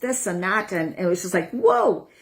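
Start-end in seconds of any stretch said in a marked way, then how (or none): 1.5-2.1 whoa. Retold or imitated. Awed reaction to sensing energy.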